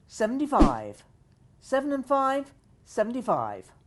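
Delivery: slow sing-song number calling; bingo caller. Acted. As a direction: call each number, then repeat it.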